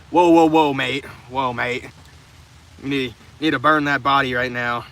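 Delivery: put-on loud burst into a clumsy British accent, then fading; fumbling British cop accent, self-mocking; bad British accent. To the viewer, retrying the cop as British, clumsy British accent. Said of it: "Obviously, I'm not good at British accents".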